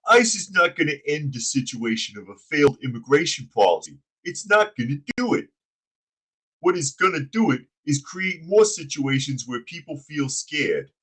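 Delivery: mock the mayor as a goofy mob henchman; dumb henchman voice. Host reading the mayor's ice quote in henchman voice. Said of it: "You make him sound like a dumb henchman".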